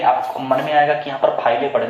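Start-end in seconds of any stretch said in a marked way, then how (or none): 1.4-1.7 "फाइले" ending in a voiced e; mispronounced with final e. Shown as a demonstration. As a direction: sound out the ले at the end of "फाइले". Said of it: "लेकिन ऐसा नहीं".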